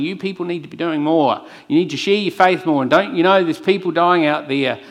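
mock scolding preacher. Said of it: "someone like me standing up here saying".

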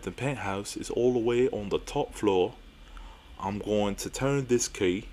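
put-on amateur English accent drifting toward Australian; measured, lightly faked English accent. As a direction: give the doorman a slightly off English accent. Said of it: "my British accent or English accent sounds Australian".

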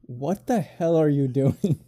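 slow, drawn-out indignant question; retold anger. Woken friend to the earlobe prankster, slowly indignant. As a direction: stretch out the disbelief at being woken. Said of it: "I was so angry".

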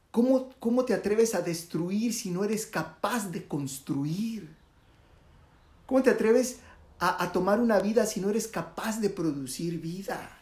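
Buda confronts the killer with a hard question; stern rebuke. Acted. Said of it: "Y Buda le contesta".

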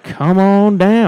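slow, loud and high, drawn out; game show host. Pretend. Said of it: "Price is Right".

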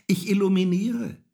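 high, loud cat voice; cat calling down. A narrator's reading. Little cat in the tree to Häwelmann, calling down. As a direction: proclaim it high from the treetop. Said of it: "rief die kleine Katze hinunter".

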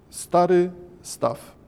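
slow, hushed poem reading with a falling close; slow haiku recital. Shown as a demonstration. Lecturer opening the class, slow poem recital. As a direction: savour the opening image slowly. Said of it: "Stary staw, wskakujące żaby, dźwięk wody".

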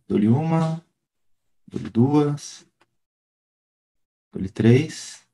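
auctioneer's countdown chant, drawn out. Pretend. Closing the poll like an auction.

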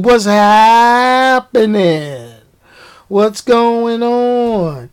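drawn-out greeting. Real, not acted. Greeting a viewer in chat.

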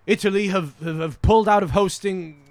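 badly faked British newsreader accent; mock BBC News report in a poor British accent. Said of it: "I'm not doing a good British accent today".

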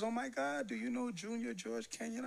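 high, eager question; retold girlfriend's high, excited voice; excited recognition. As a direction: she can't believe the coincidence.

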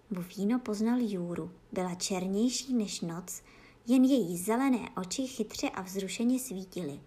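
ordinary delivery

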